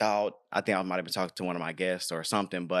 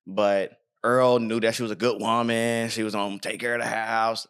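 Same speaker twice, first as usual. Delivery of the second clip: lightly voiced old man; a hint of an old man. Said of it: "That's me trying to have an old man voice".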